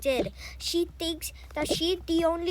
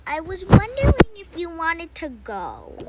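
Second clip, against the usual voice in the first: excited invitation; 4 semitones higher, 8 dB louder than usual. Acted. Mother invites child out.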